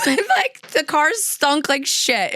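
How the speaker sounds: amused disgust; laughing. Real, not acted. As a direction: laugh out the gross part. Laughing about the smell.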